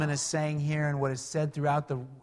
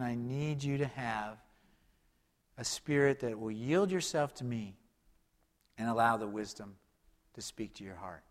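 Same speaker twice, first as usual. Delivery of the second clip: gentle voice of God; 4 semitones lower, 7 dB quieter than usual. Pretend. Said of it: "And God is saying".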